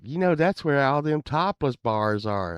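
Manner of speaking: high, loud henpecked husband; old neighbor's voice. Retold or imitated. Henpecked neighbor telling the band he can drive them, high eager voice. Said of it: "he talked like this".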